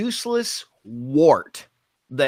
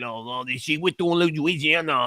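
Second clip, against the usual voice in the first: a hint of a Cajun accent; host mocking the press secretary with a slight Cajun accent. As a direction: lightly put on Cajun, mocking her. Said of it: "I'm sure she'd start talking like this".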